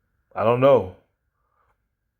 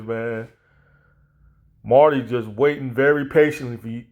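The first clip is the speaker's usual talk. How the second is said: usual speaking voice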